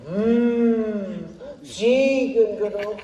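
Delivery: put-on Swiss German accent. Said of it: "aber ich bin ein Schweizer".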